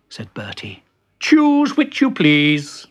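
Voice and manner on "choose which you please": high, slow ultimatum; firm ultimatum. Acted. Bertie giving Benji the choice, slow high ultimatum. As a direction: draw out each word, high and haughty.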